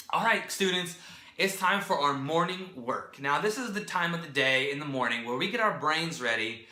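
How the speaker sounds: lightly acted teacher addressing young pupils; teacher giving directions. Shown as a demonstration. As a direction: call the class to order, gently upbeat. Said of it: "example of a direction that I would give".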